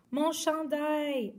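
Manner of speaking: high, slow dismayed cry. Acted. Woman crying out for her sweater, high slow cry. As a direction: lament the sweater. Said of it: "a crié la femme".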